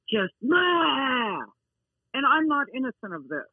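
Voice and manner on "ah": high, wordless mock yell; imitated angry yell. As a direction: imitate owners yelling angrily at their dogs. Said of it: "an angry tone of voice".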